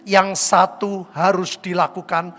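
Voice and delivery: slow, loud unison reading; reading aloud together. Shown as a demonstration. Preacher leading congregation in reading scripture, slow and loud. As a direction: lead the congregation through the verse slowly. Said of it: "Baca bersama saya".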